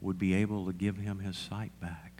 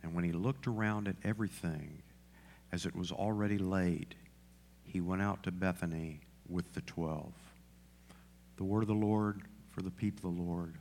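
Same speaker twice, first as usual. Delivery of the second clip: scripture reading; 2 semitones lower, 5 dB quieter than usual. Acted. Pastor closing the scripture reading for the congregation, measured scripture reading. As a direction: read it solemnly with pauses between phrases.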